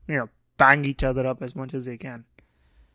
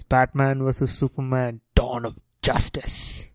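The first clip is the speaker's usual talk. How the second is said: robot voice; 5 dB quieter, slower than usual. Pretend. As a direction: intone the title like a robot. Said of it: "You gotta say it in the full name and the robotic voice".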